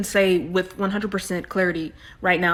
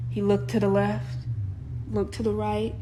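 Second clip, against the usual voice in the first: suspenseful hush; 8 dB quieter than usual. Pretend. Suspense-building quiet narration.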